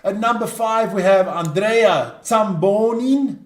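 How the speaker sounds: slow Italian-accented player introduction; best Italian accent. Shown as a demonstration. Host going through the Italian team, drawn-out Italian accent. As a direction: stretch the name out in a playful Italian accent. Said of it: "your best Italian accent".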